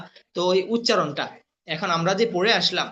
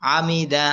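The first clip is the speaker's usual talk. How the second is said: "আমিদা" read as one whole word; joined-up reading; 3 dB louder, much slower than usual. Shown as a demonstration. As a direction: read "আমিদা" without breaking the syllables. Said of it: "এরপরে reading পড়বেন". ("আমিদা" reading করে একসাথে পড়া)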